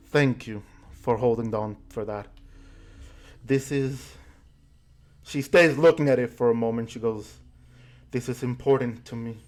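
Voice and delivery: tearful Ribmay. Acted. Ribmay thanks them for returning the amulet, softly tearful. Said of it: "a small tear f-, like, forms in the corner of her eye".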